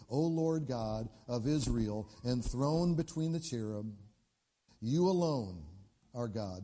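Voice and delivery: slow, reverent prayer voice; prayer reading. Acted. Hezekiah praying to the Lord at the altar, reverent. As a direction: read it slowly, like a prayer.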